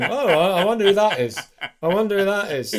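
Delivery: lightly voiced cheerful young man; cheerful wondering. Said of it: "Milo's quite happily going".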